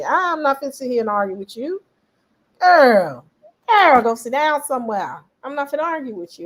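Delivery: put-on girl go sit down, dismissive and firm; sassy brush-off. Imitating black folks brushing off an argument, sassy. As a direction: wave them off with a bit of sass. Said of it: "black folks real quick say".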